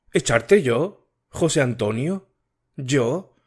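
a hint of an anxious girl pleading; Matilde voiced.

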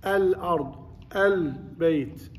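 "ال" voiced with a clear opening vowel and full lam; clearly sounded article. Shown as a demonstration. Teacher shows how the alif gets a vowel, clearly sounded article. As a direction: sound out "ال" fully before each noun. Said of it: "فحتى يكون يحرك، يحركها".

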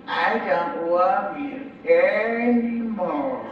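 slow, mournful, drawn out; tearful. Acted. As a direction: say it slowly with a tear in the voice. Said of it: "with a tear in his eye".

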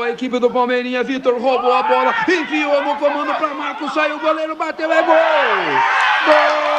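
football commentary building to a goal shout; live play-by-play. Acted. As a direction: call the attack rising to GOL.

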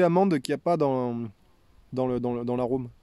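talking around pipe stem; pipe stem at lips. Real, not acted. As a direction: lips partly closed on stem. Seen 1: Pipe stem rests at or between the lips from about 1.4s.

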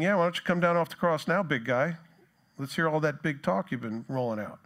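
mocking. Soldiers mocking Jesus on the cross, mocking. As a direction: goad him with a scornful jeer. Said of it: "we see the soldiers mocking him".

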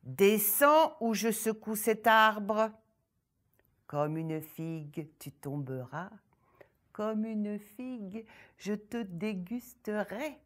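loud, threatening ogress growl; furious ogress. Acted. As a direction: threaten her with menace. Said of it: "L'ogresse bouillait de colère".

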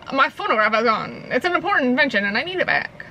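put-on game character in a British accent. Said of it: "can't do it without doing a British accent".

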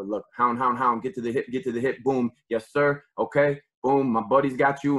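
chanting along with the replay, fired up; excited film calling. Real, not acted. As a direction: call each hound like you're watching it live. Coach calling along with game film.

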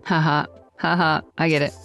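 ordinary talk

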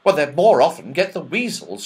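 high, loud elf voice; chirpy little elf apologising. Acted. Elf apologising to the children, high loud elf voice.

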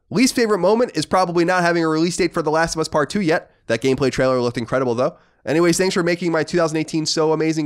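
read-aloud voice, pitched a little up; reading a listener letter. Acted. Host reads a listener's letter to co-host, read-aloud voice. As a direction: read the letter out in an even presenter's cadence.

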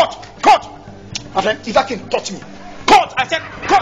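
calling cut. Real, not acted. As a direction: shout over the chaos. Director halts the scene.

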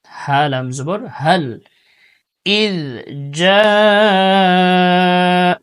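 إذ جاء slow, with a soft dh in إذ; soft dhal. Shown as a demonstration. Teacher drilling the soft dhal. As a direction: ease the dh of إذ out gently and slowly. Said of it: "إذ নরম করে".

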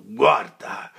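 furious call; commanding shout. Acted. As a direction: make him look. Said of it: "voce ... pienezza e sonorità".

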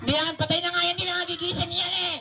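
cheeky dummy. Acted. Dummy insists it is dead.

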